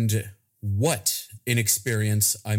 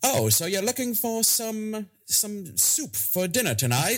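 high ad announcer; cheesy soup ad read; radio commercial voice; 11 semitones higher than usual. Pretend. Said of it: "pull out my radio voice".

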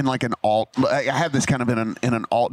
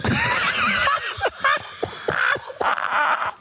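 laughing so hard the voice breaks high; real laughter, squealing and crying with it; high helpless laughter. Real, not acted. Teller breaks up laughing at the snakes answer. Teller cracking up at own story.

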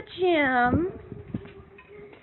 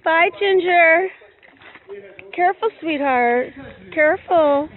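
calling out; 4 dB louder than usual. Real, not acted. Calling cows out of yard.

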